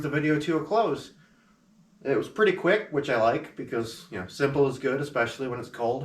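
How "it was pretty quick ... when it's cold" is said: shivering. Real, not acted. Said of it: "I'm sure you can hear it in my voice".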